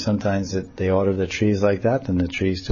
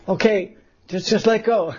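teasing laugh; 11 semitones higher than usual. Acted. Krishna teases.

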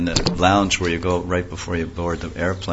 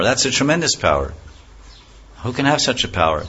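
put-on higher, sweet little boy voice; sweet child Krishna; 3 semitones higher than usual. Little boy Krishna teases the demon, sweet and higher. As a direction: coax him like an innocent child. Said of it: "in a very sweet voice and a high-pitched voice of a child".

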